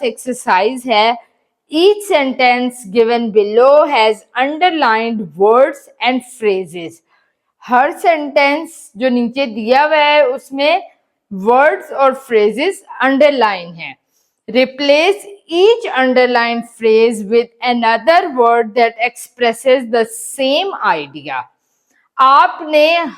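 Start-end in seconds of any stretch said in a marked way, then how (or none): 1.7-7.0 slow, deliberate reading aloud to pupils; measured classroom dictation; slow textbook reading. Acted. Teacher reads exercise instructions. 14.5-21.4 slow, deliberate reading aloud to pupils; measured classroom dictation; slow textbook reading. Acted. Teacher reads exercise instructions.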